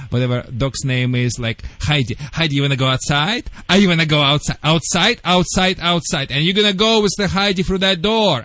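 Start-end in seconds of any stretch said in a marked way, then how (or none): 1.8-6.3 coaxing the dog. Shown as a demonstration. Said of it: "you look in the dog's eyes and say".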